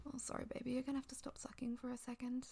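hushed, tender whisper. Acted. Whispered apology.

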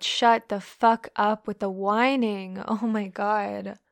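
slow, emphatic, loud reprimand; exasperated scolding. Acted. Dominant fed up with whining, exasperated. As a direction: scold with every word drawn out.

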